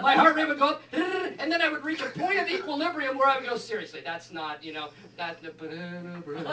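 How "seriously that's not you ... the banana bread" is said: delirious. Retold or imitated. Delirious rambling, softer.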